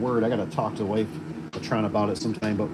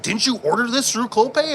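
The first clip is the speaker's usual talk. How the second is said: high and a bit louder, puzzled; quoting Caleb; 10 semitones higher, 5 dB louder than usual. Retold or imitated. Caleb asking if it came through Clopay, high puzzled voice. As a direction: play Caleb up high, baffled by the order. Retelling coworker Caleb's questions.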